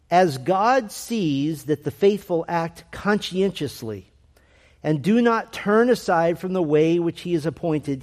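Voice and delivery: deliberate, measured quote reading; weighty, unhurried reading of a dense passage; slow reading. Real, not acted. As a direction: read it out slowly and carefully, phrase by phrase. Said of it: "I'll read it slowly".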